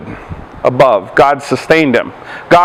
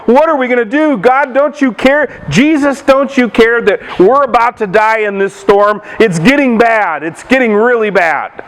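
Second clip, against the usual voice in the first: retold panic, pitched up at first; higher-pitched imitation of frightened men; mildly panicked disciples; 3 semitones higher than usual. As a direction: act out mild alarm, pleading with Jesus. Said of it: "the disciples are panicking".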